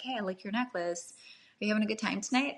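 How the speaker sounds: man gently opening with a compliment, soft and easy; gentle approach. Retold or imitated. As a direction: ease in kindly, no pressure. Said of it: "this gentleness to your approach".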